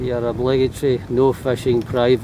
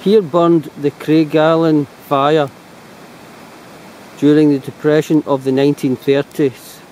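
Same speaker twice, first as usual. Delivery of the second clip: reading aloud; 3 dB louder than usual. Shown as a demonstration. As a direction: read it out like an inscription. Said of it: "Okay, I'll read it".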